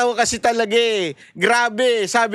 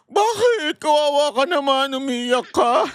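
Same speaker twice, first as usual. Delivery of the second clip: high mock-concerned opening, settling down; mock pity; 3 semitones higher than usual. Host teasing the crying witness, in mock pity. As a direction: pretend to pity them, teasingly.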